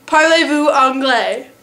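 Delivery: "Parlez-vous anglais?" said slowly in careful French; French phrase demo. Shown as a demonstration. Teaching viewers the French for "Parlez-vous anglais?", slow and careful. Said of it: "always remember how to say".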